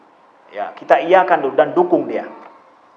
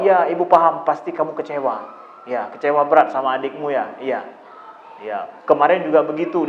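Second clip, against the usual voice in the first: softer, gentle validating tone; understanding mother; 2 semitones lower, 4 dB quieter than usual. Retold or imitated. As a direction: soothe an upset child, agreeing with him. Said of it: "tapi kita katakan bahwa". (ibu yang memahami, lembut dan menenangkan)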